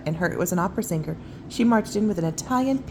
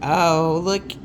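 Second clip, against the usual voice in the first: much higher, slow amazed voice; excited; 10 semitones higher, 6 dB louder, much slower than usual. Real, not acted. Showing the child the polar bear. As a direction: marvel at it slowly.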